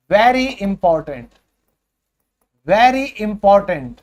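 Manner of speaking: very important drawn out very slowly, leaning on very; emphatic very slow. Shown as a demonstration. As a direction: stretch out very important word by word. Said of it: "ये बहुत important है दोस्तों". (very important पर ज़ोर, बहुत धीरे)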